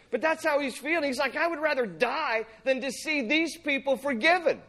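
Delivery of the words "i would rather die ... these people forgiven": high-pitched, overdramatic mock complaint; hammed-up prophet protest; dramatic Jonah. Jonah rather dying than seeing people forgiven, melodramatic. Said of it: "so dramatic here".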